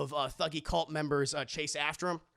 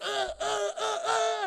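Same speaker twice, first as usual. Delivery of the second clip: mock grunt; 14 semitones higher, slower than usual. Villain loses grip.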